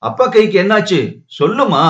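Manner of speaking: put-on small girl pressing for an answer; pestering child. A narrator's reading. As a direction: nag mother with insistent questions, as a child. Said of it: "தொந்தரவு செய்தாள் ரோகிணி".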